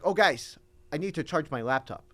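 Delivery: lightly voiced professor; offhand retelling of a teacher's announcement; Spanish professor imitation. Student quoting his professor to a friend, light imitation. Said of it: "That's just how he said it".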